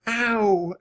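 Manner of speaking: high, drawn-out little ow; a mild cry of pain on a hop; high-pitched, understated ouch; soft pained ow. A narrator's reading. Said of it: "Annie said softly with each hop".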